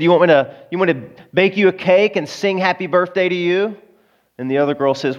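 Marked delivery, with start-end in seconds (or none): 0.0-3.8 mocking question pitched up; lightly acted incredulous jibe; scoffing retort. Woman mocks friend's wish for a birthday cake, scoffing.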